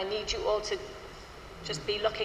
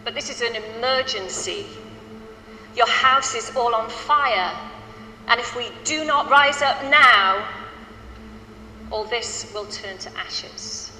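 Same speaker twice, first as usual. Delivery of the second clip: urgent spoken warning; 3 dB louder than usual. Shown as a demonstration. Choir leader reading the spoken part, urgent and rising. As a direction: build to a loud plea on fire and rise up now, then drop. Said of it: "I didn't want to stop you".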